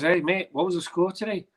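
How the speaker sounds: a hint of a friendly bloke calling over; retold stranger. Stranger stops a fan for the score, retold casual call.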